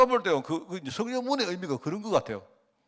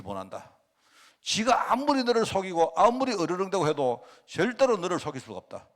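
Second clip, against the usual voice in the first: proclaimed divine promise; 3 semitones higher, 4 dB louder than usual. Acted. Jesus' promise proclaimed, slowed.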